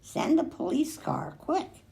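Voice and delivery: a touch of urgent calling, rising high; mild urgent shout for a police car. A narrator's reading. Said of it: "yelled Michael".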